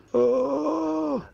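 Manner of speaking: sudden very high ghostly wail; eerie high cry. Retold or imitated. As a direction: let out an otherworldly moan. Strange voice heard at night.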